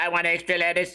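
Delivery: weird, odd, machine-like robotic voice. Imitating a guy in a story he is retelling, in a weird robotic voice. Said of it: "it's a weird robotic voice like this".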